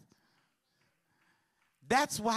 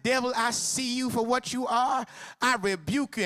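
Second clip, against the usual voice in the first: mock rebuke; 5 semitones higher, 4 dB louder than usual. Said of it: "And I said".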